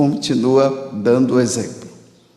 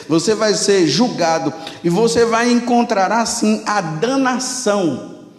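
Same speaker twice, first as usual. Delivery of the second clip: stern warning. Retold or imitated. Priest gravely warning the mocking soldier of damnation, stern. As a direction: solemnly warn the young man of judgment. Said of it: "fez uma cara de sério".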